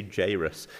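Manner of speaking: "Jairus" said the local way; local pronunciation. Shown as a demonstration. Preacher concedes how people around here say it, local pronunciation. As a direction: offer "Jairus" as the local variant. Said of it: "maybe around here you say".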